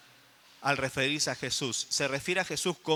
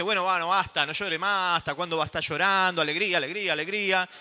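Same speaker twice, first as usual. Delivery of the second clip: impatient cheering up. Retold or imitated. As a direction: hurry her out of her grief, half joking. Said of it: "no es que el Señor dice". (ánimo impaciente burlón, un poco más fuerte)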